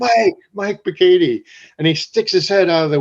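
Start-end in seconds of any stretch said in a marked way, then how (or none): 0.0-1.4 drawn-out call, higher and louder, x0.7; yelling up. Retold or imitated. Calling up from the street to the contractor, slow loud call. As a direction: call the name up to a window three floors high. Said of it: "started yelling up to the third floor".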